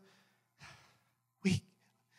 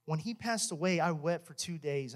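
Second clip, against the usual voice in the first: hushed; 5 dB quieter than usual. Real, not acted. Grief over mentor's death.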